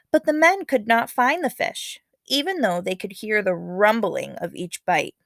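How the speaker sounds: lively read-aloud storytelling voice; story narration. Acted. Teacher reading a legend to her class, dramatic storytelling.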